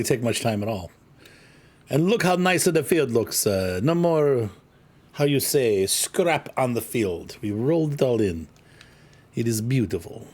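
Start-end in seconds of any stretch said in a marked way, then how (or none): 1.9-10.3 slow down into a light, put-on Italian accent; hammed-up Italian, groping for words; playful Italian accent. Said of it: "I don't know why I'm Italian all of a sudden".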